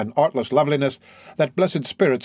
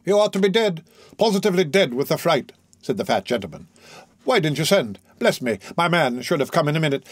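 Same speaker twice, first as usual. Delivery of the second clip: fussy doctor. Acted. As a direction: cluck and fret like a flustered physician. Doctor fusses over the fright.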